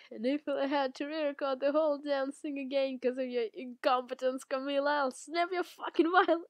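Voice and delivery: heightened, irritated threat; mock-furious warning; acted threat. Acted threat to Camila, then laughs.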